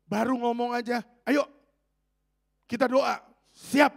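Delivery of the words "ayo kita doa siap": eager. Retold or imitated. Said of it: "kalau orang yang taat tuh".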